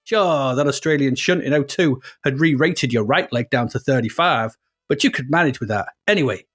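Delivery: hammed-up American racer's narration, somewhere in America; American accent. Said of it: "it's somewhere in America".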